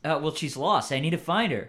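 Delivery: put-on loud, stereotypical California surfer accent; SoCal surfer accent. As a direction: explain yourself as a SoCal surfer. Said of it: "I'm doing the stereotypical SoCal surfer accent".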